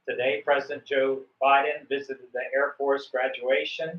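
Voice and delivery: news broadcaster delivery; news anchor read. Shown as a demonstration. Coach showing a student how to copy the news anchor. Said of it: "just the way that the news broadcaster said it".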